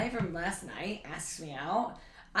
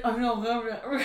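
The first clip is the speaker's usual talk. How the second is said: laughing; 3 semitones higher, slower than usual. Retold or imitated. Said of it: "he literally was like".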